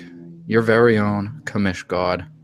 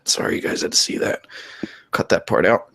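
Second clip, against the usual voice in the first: mock sheepish. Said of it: "mock embarrassed aside".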